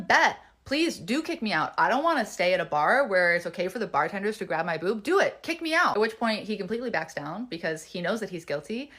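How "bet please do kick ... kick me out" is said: retold defiant dare. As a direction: dare him to follow through. Dares bartender to kick her out.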